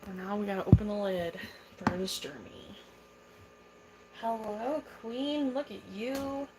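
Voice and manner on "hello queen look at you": 1 cooing at pet. Real, not acted. Greeting her tarantula lovingly.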